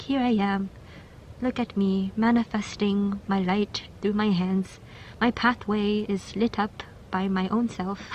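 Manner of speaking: lightly voiced proud queen; a hint of a regal queen showing herself off; voicing the queen card. Reader voices the Queen card to group two, lightly regal. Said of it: "I don't know why I'm talking like that".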